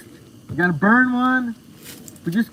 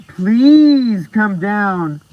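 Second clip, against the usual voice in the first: drawn-out plea; 6 dB louder, much slower than usual. Real, not acted. Begging a viewer to visit.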